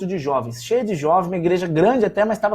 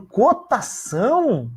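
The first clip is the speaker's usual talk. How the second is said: slower "Cotação?", higher than the first take; an even more incredulous "Cotação?"; stunned inner echo; 4 semitones higher, much slower than usual. Retold or imitated. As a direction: mull the word over in disbelief. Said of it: "Eu fiquei pensando".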